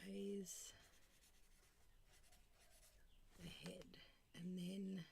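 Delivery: whispering words while writing them; very soft, trailing self-talk; absent-minded whisper. Real, not acted. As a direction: whisper to yourself, absorbed in lettering.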